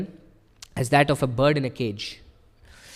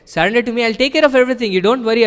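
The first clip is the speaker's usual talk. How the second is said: higher, louder, urgent call of Krishna; ringing divine appeal, much higher and louder; voicing Krishna; 8 semitones higher, 7 dB louder, faster than usual. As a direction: call out like a god pleading to be heard. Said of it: "Krishna said".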